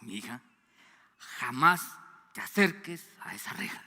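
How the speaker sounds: lightly voiced dad warning his little girl; stern father's warning. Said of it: "con una voz así".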